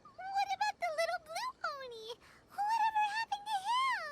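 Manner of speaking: near tears. Acted. Upset by the sad ending.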